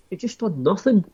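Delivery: breathy aside, barely voiced; whispered exasperation. Real, not acted. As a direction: drop to a whisper in disbelief. Exasperated aside about fighter's inactivity.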